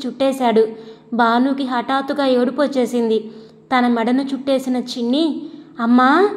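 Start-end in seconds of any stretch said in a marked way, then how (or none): 5.8-6.3 put-on a toddler's happy cry of అమ్మా, louder, pitch rising at the end; excited shout. A narrator's reading. Toddler hugging his new mother, calling అమ్మా with a rising happy cry. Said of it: "ఉత్సాహంగా అరుస్తూ".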